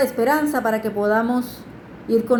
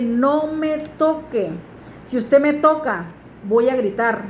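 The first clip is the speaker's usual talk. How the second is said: slow, measured retold warning; brave warning; slower than usual. Girl warning the person who touched her, retold with firm courage. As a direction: retell standing your ground, word by word. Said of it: "lo hice con un valor".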